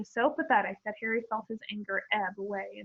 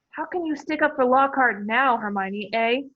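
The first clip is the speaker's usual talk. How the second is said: louder, calling across a curtain; 5 dB louder than usual. Acted. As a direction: call through the curtain. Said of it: "Ron called through the curtain".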